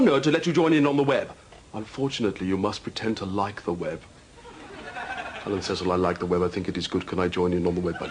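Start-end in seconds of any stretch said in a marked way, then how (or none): 5.5-8.1 fake sincerity. Pretending to like the web.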